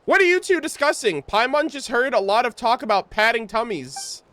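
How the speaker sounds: a touch of Paimon. Acted. Reads Paimon's lines.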